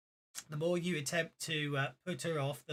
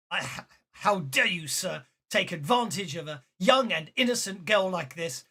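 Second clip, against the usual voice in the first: indignant, mildly raised challenge; furious father; 4 dB louder than usual. Acted. Father confronting the stranger over his daughter, indignant. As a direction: act out outraged honour. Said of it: "a very furious individual".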